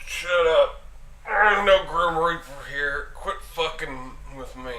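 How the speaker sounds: grumpy, low and quiet; annoyed. Acted. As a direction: brush him off, half asleep. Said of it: "Eric said, annoyed".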